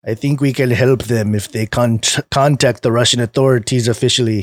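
put-on a weak, half-hearted Russian accent; bad Russian accent. Reading the vaccine creator's quote in a bad Russian accent. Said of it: "That was a bad Russian accent".

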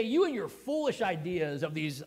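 mildly condescending, drawn-out scolding; mock belittling tone; talking down. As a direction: slowly talk down to them. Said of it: "he doesn't even talk down to them".

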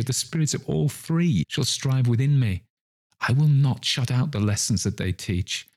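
high, impassioned promise, easing into a plea; fervent vow. Acted. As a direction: swear it desperately to the spirit.

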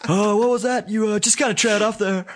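high, loud and mock-surprised; playful teasing. Real, not acted. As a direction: tease him for trailing off. Teasing call-out after the laugh.

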